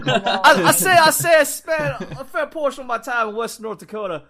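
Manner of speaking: mock southern accent. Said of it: "I'm a little bit southern up here".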